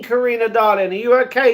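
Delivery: ordinary talk, nothing marked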